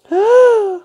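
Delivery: sudden high loud gasp of shock; startled gasp at the mirror; sharp gasp. Real, not acted. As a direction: gasp in alarm at what you see. Shocked at own face on camera.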